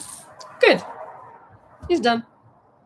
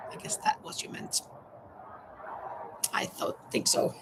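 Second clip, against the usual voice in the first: whispered aside; 12 dB quieter than usual. Real, not acted. Whispered aside about autocorrect.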